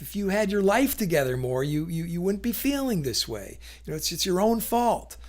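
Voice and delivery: lightly acted reproach; condescending blame. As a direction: talk down to them as if incompetent. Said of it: "imply that the other person is somehow incompetent".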